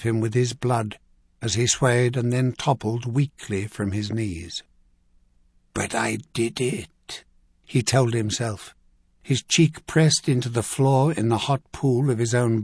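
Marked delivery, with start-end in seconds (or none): 5.7-7.2 slow, softened inner voice; fading, private self-assurance; dying thought. A narrator's reading. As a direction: murmur it slowly to yourself. Dying man's last thought.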